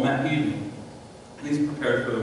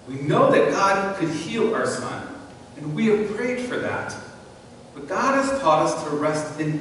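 reading aloud. Shown as a demonstration. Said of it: "This is what the woman said".

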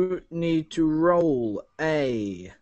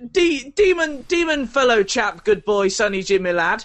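overly polite coaxing; 2 semitones higher than usual. Acted. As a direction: sweet-talk the demon like a butler. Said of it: "You, uh, you say to your demon".

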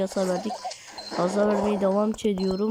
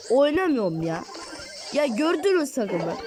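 high, whiny gamer rage; frustrated complaining; 4 semitones higher than usual. Real, not acted. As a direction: moan at the team, pitched up. Raging at teammates mid-match.

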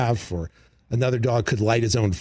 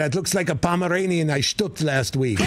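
Triumph insult; 5 semitones higher than usual. Retold or imitated. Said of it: "It was something like".

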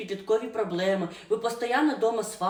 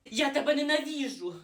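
put-on teen outburst; 5 semitones higher than usual. Girl yells at stepmother.

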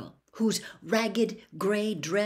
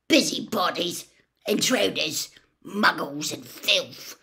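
put-on contemptuous old man. Gaunt spitting insults.

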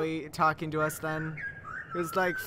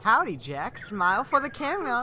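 lightly higher sly flower voice; Flowey voice; 6 semitones higher than usual. Pretend. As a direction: tease him like a cheeky flower. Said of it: "That's Flowey".

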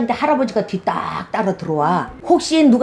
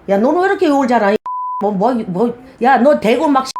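rapid-fire mock scolding; quick retold scolding. Shaman retells scolding a client for cursing, rapid mock scolding. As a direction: rattle it off like a mock telling-off.

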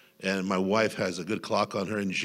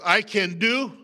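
aggressive; 11 semitones higher, 5 dB louder, slower than usual. Shown as a demonstration. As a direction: say it with fight, loud and forceful. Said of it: "did you hear the aggressiveness".

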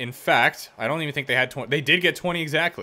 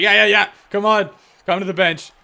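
hammed-up high, louder beckoning voice; mocking opponents; 6 semitones higher, 6 dB louder than usual. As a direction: wave them to the bench, teasing. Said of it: "they're gonna be like".

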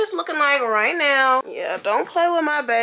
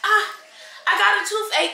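put-on whiny kid voice; 8 semitones higher than usual. Mom mimics child's toothache whine.

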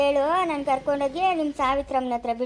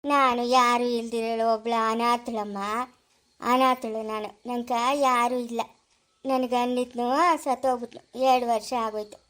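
low, subdued confession of loneliness; subdued sorrow; 3 semitones lower than usual. Acted. Lonely widow tells the child she has nobody, subdued sorrow.

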